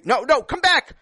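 hammed-up call after the kids; calling back. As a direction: call them back before they run off. Calling after fleeing audience.

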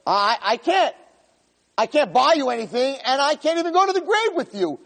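high, strained voice of the stuff; possessions' voice. Acted. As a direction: speak as the belongings refusing.

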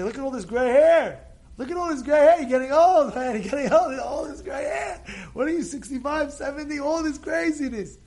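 hammed-up barber ribbing an old man; mock barber teasing. Barber loudly teasing about gray hair.

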